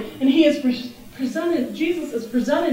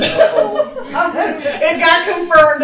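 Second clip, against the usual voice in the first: slow, laughing declaration; laughing, drawn out; 5 dB louder, much slower than usual. Real, not acted. Preacher laughing as she tells the congregation of the sign. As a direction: let it stretch through laughter.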